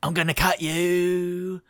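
slow, threatening snake drawl; menacing snake. Acted. GM voicing the snake threatening the rat. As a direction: draw the threat out slowly. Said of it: "the snake's going".

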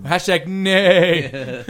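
horse neigh. Acted.

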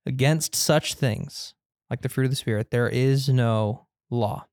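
slow, deliberate scripture reading; slow emphatic reading. Real, not acted. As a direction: lean on each word. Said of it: "Let me read that again, 'cause that's where we're staying".

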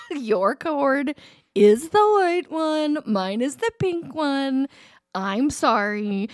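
very slow, measured mock contrition; reluctant apology. Mom admitting to daughter she was wrong, slowly contrite. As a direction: eat crow one slow word at a time.

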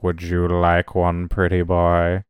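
slow, low flirty come-on; lightly voiced sultry waitress; unhurried teasing pick-up line. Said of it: "In that exact tone".

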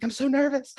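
high-pitched, playful squeal of nerves; mock nervous. Texting his wife before recording, mock nervous. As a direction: blurt it like comically panicked texting.

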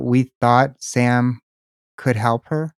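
slow, each word laid out as a question; slow pointed quote. Shown as a demonstration. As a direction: read it back slowly to check it. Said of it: "do you remember saying anything of that sort".

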